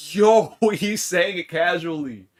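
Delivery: loud, high, slow laughing exclamation. Real, not acted. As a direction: crack up while saying it. Laughing at chat.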